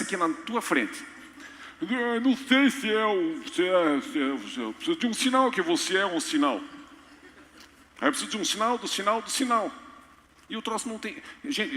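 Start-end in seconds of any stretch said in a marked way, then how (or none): 1.8-9.7 a lightly voiced hesitant Gideon, stammering; stumble, unsure, asking again; dithering Gideon. (Gideão hesitante, de leve)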